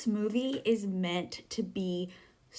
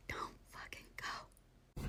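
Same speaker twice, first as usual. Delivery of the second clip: slow, emphatic whisper; whispered telling-off; 15 dB quieter, slower than usual. Real, not acted. Telling noisy moviegoers to stay away, slow fierce whisper. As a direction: whisper each word as a final warning.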